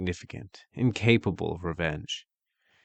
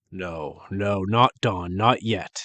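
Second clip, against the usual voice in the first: slow stubborn ogre denial; a mild childish ogre tantrum; 3 dB louder, slower than usual. Acted. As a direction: refuse it like a sulking brute. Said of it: "Redcap tantrumed".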